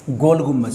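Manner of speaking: "गुम्बज" said with a closing j sound; correct pronunciation. Shown as a demonstration. Teacher showing students the proper name, "गुम्बज" with final ज. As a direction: end "गुम्बज" on ज, never द. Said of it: "सही से pronounce".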